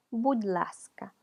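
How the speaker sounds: «будь ласка» whispered very slowly. Shown as a demonstration. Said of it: "repeats the word, whispered and slow". («будь ласка» susurrado y muy lento)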